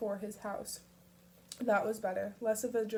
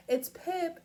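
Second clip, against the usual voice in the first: high, louder call across the house; shout; 9 semitones higher, 5 dB louder than usual. A narrator's reading. Mom calling up to her son, loud and high. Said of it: "she heard Nisha shout".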